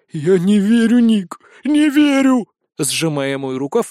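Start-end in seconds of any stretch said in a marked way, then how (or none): 0.1-2.5 high, loud, drawn-out wail; panicked exhalation. A narrator's reading. Scared wizard clutches friend's sleeve, panicked wail. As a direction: cry it out in despair, stretching the words. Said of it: "выдохнул мальчик-волшебница-фея".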